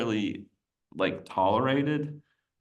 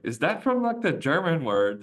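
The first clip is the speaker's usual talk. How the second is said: curious question; 7 semitones higher than usual. Retold or imitated. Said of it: "he was like".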